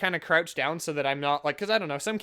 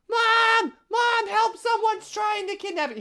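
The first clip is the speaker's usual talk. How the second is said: high, loud imitation of a shrieking kid; screaming child; 5 dB louder, slower than usual. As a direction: scream for mom like a kid in panic. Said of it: "this kid just starts screaming".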